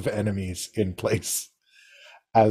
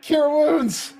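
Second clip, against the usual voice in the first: heroic spell call. Retold or imitated. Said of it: "be like".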